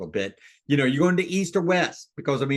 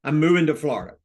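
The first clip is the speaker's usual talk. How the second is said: delighted seller. Shown as a demonstration. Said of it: "let me give you a, an example".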